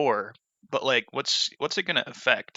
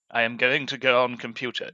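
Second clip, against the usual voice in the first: automated British voice. Retold or imitated. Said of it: "that automated British voice".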